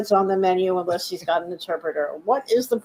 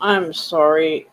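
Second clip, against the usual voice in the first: ordinary delivery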